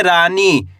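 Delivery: रानी with a long, held aa after the r; drawn-out vowel. Shown as a demonstration. Teacher dictates a word for spelling, drawn-out रानी. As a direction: stretch the first vowel of रानी. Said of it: "रा का उच्चारण खींच के निकल रहा है".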